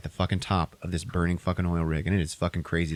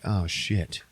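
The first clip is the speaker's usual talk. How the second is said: alarmed; 4 semitones higher, slower than usual. Retold or imitated. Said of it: "you're like".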